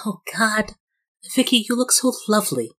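high-pitched gushing compliment. Acted. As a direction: coo over the bride's party in a high voice. Gushing greeting to bridesmaid in character.

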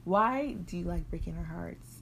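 slow, mournful parent voice; slow parental guilt trip. Retold or imitated. Parents lecturing daughter, slow guilt trip. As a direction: drag it out like a wounded parent. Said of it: "It's the way that you're looking at me".

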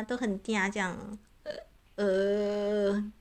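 slow mock-cutesy whine; hammed-up cutesy sigh; coy baby voice. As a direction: play at being sugary and coy. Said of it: "好啊".

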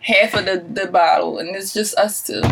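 a few drinks in. Real, not acted. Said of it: "we drunk".

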